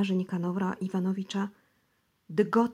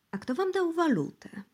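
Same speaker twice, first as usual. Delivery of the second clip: cordial; 9 semitones higher than usual. Acted. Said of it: "zapytano serdecznie".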